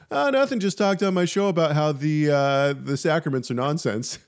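high-pitched offhand answer; mock-casual reply. Acts out own casual reply.

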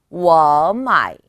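워 마이 joined, 워 loud and rising into a dipping 마이; second-plus-third tone demo. Shown as a demonstration. Teacher repeats the correct pattern, rising tone then third tone. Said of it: "성조는 이성 더하기 삼성으로".

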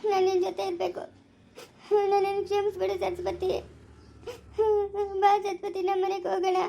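weepy, remorseful plea; tearful pleading. Acted. Husband begging Saraswati's forgiveness and to come home, tearful. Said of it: "ಅಳ್ಬೇಡ ಚಿಮ್ಮೇಡು ನಗು ನೀನು".

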